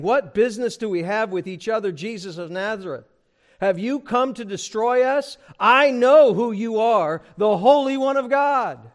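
loud angry demon cry. Acted. Preacher voicing the demon crying out at Jesus, loudly. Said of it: "He cries out. This is a loud, angry voice".

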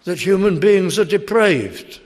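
sceptic's indignant loud rebuttal; indignant objector. Retold or imitated. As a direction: hurl the objection back. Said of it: "And they say".

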